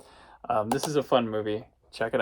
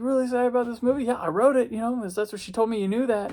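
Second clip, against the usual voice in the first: lightly voiced chat; 11 semitones higher, faster than usual. Exchange with the writer, high voice.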